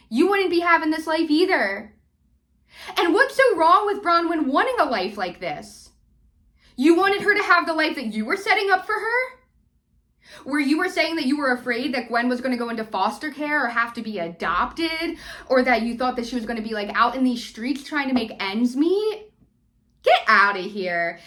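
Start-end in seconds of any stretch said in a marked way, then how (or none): 0.1-11.9 higher and louder, with indignant rising questions; heated rant. Real, not acted. Ranting at Muzzy, voice rising. 20.0-21.2 louder, with a low scoffing push; scoffing dismissal. Real, not acted. Dismissing Muzzy's claim.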